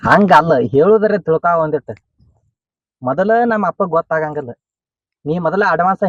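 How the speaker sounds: loud, exasperated plea to listen; forceful, impatient appeal; insistent outburst. Acted. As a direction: raise the voice to make the partner understand. Pleading in an acted quarrel.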